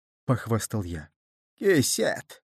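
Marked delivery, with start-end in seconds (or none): 1.6-2.4 higher, sudden outraged shriek; old man squealing the word in outrage; grandfather's shrill cry at the pouch. A narrator's reading. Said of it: "завизжал дедушка".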